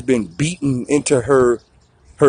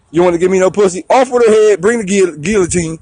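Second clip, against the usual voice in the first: ranting king; 5 semitones higher than usual. Acted. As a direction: bellow the order like a petty king. King demanding, ordering execution.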